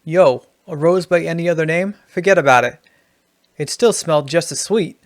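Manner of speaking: punchy, lightly put-on New York voice; New York accent. Shown as a demonstration. Writing teacher demonstrating the rose line for New York, New York accent. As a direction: give it a bit of New York swagger. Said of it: "Here in New York".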